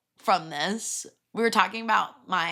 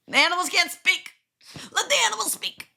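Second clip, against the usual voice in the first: raised, emphatic mock plea; mock dramatic plea; 11 semitones higher, faster than usual. Friend quoting a line, raised and emphatic. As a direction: sell the line like a dramatic slogan.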